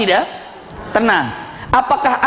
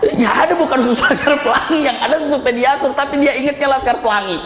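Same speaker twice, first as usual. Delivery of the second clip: higher, laughing through the words; laughing explanation; 4 semitones higher than usual. Real, not acted. Preacher explaining the joke to listeners, laughing. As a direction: explain it while still laughing.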